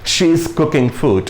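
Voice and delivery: very slow, word by word; slow example read. Shown as a demonstration. Teacher showing the perfect tense example, very slow. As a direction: spell the sentence out slowly for learners. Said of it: "ये क्या कर रही हैं".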